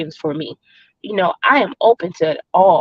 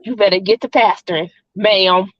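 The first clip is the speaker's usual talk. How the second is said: put-on light Jamaican accent, playful. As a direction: tease her in a Jamaican accent. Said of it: "Are you gonna watch a Jamaican voice here?".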